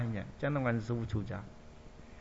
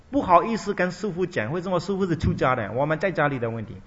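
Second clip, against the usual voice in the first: mother's loud plea; 3 semitones higher, 5 dB louder than usual. Retold or imitated. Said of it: "他的妈妈想来".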